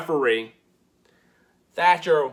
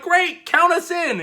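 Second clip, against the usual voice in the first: eager chirp; 13 semitones higher than usual. Retold or imitated. Everrise eager.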